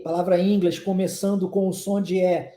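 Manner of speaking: normal talking voice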